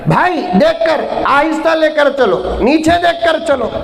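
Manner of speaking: a touch of a fussy mourner; cautious mourner. Retold or imitated. Husband at the funeral urging bearers to go carefully, gentle coaxing. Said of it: "ये बोल रहा".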